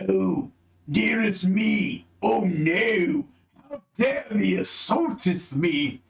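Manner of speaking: high, slow mock-genteel ogre; prissy ogre voice. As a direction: fuss like an offended ogre lady. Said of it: "and the ogre says".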